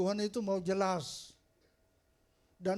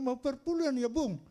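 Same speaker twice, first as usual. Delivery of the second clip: teasing lilt, pitched higher; playful higher teasing; teasing question; 5 semitones higher than usual. Retold or imitated. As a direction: poke fun at him about the tithe, higher up. Pastor teasing the rich man.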